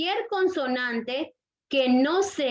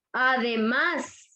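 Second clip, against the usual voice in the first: "además" slowly, weight on "más"; stress on last syllable; much slower than usual. Shown as a demonstration. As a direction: draw out "además" toward its stressed ending. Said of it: "fuerza de voz en la última sílaba".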